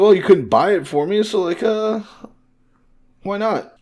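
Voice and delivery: put-on high-pitched child pleading her case; little kid, imitated. Little girl tells mother why she stole, imitated child. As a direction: play a kid making excuses in a high voice. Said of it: "Nami being a cute little kid".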